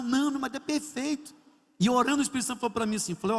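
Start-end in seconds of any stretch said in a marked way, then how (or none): 0.0-1.3 mildly tearful mock protest, higher voice; retold tearful protest. Wife in tears defends her husband to the pastor, mock-tearful. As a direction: imitate a tearful wife, pitch raised. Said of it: "ela aos prantos chorando".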